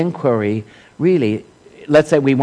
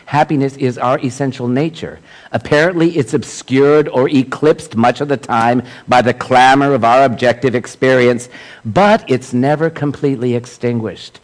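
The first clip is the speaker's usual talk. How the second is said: emphatic quotation reading; 4 dB louder than usual. Acted. Speaker reads a teacher's words to a congregation, emphatic quotation reading. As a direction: read it out with measured, raised emphasis.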